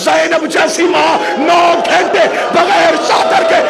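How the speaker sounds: full impassioned cry over Zainab's captivity; shouted lament. Acted. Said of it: "same line repeated slowly".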